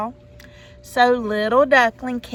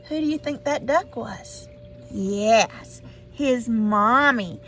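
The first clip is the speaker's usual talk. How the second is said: ordinary delivery, nothing marked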